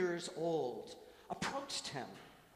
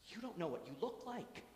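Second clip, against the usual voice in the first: put-on higher-pitched, mildly sad child's words; saddened; 6 semitones higher than usual. Young girl moved from shock to sadness, mildly saddened. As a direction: voice a girl's dawning sadness, pitched up. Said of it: "to sadness".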